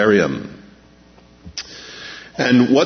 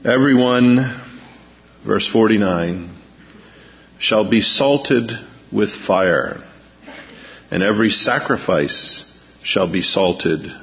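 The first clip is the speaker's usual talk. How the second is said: scripture reading; slower than usual. Acted. Reads scripture slowly.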